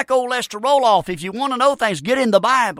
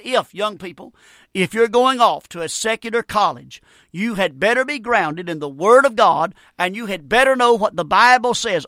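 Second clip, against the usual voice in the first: emphatic preaching warning. Real, not acted. Preacher warns young people.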